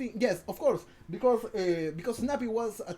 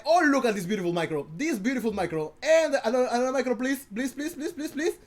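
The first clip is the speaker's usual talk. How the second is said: excited begging; 3 semitones higher, 5 dB louder than usual. Real, not acted. Begging for another micro play.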